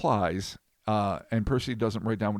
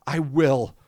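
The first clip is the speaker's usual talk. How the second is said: community theater demon; 6 semitones higher, 3 dB louder than usual. Acted. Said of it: "you nailed it. Community theater dude".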